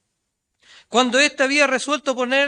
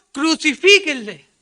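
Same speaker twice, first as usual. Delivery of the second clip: crowd shouting; 7 dB louder than usual. Retold or imitated. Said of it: "habían gritado".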